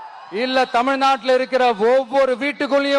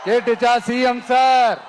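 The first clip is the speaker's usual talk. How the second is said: taunting shout. Real, not acted. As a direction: call out the question with a grin. Taunting the chief minister. (முதல்வரை நோக்கி கிண்டல் கூச்சல்)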